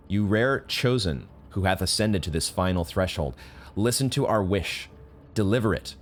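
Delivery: lightly voiced solemn choir of elders; solemn NPC reading. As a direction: intone it like an old oracle. Reads the NPC dialogue aloud.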